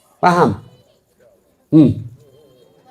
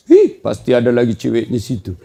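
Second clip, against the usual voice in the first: istri curiga; 4 semitones lower than usual. Acted. Istri sangka buruk, suara lain.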